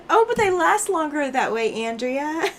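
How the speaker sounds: high, teasing husband's excuse; mock defence. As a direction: play the husband's excuse with a wink.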